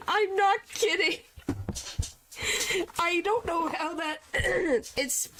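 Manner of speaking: high, squeaky laughing confusion; helpless laughing. Real, not acted. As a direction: laugh through your bewilderment. Confused by the translation.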